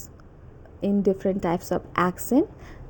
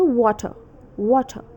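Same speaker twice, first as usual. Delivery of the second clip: British "water" with an open uh ending; attempted British r-less "water"; British accent. Shown as a demonstration. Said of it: "E R pronounced as U H".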